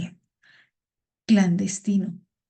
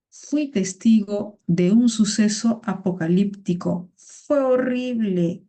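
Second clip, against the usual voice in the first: mock horrified witness; 4 dB louder, slower than usual. Teacher voices a witness in her example sentence, mock horrified. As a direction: play a shaken witness, drawing it out.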